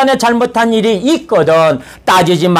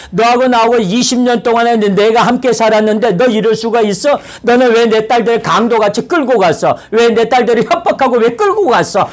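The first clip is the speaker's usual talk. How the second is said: confronting; 4 semitones higher than usual. Retold or imitated. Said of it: "막 그렇게 따지기 시작하는 거예요".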